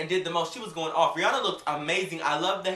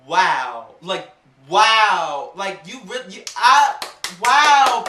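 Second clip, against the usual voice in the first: amazed; 11 dB louder, much slower than usual. Real, not acted. Amazed at a singer.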